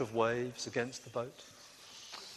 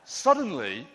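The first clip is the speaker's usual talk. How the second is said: starts even, climbs higher and louder to a near shout; building storm narration; 7 semitones higher, 7 dB louder than usual. A narrator's reading. Telling the children about the storm, building louder.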